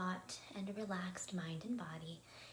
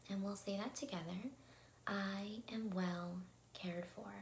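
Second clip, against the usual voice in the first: calm, measured affirmations with long pauses; meditation affirmations. Acted. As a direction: lead the affirmation slowly enough to say together. Leads spoken affirmations in meditation.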